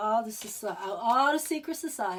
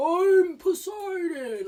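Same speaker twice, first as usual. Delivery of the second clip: big, booming, mighty god voice; 8 semitones higher, 5 dB louder than usual. Retelling a dream where a figure announced himself: big Poseidon god voice. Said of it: "like in this big god voice".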